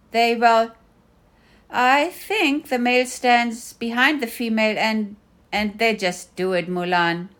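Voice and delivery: tired, fumbling explanation; exasperated. Acted. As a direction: give up trying to explain. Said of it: "I said, exasperated and disappointed".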